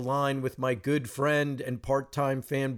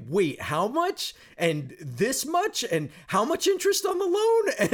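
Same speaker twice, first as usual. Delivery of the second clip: incredulous; 12 semitones higher than usual. Retold or imitated.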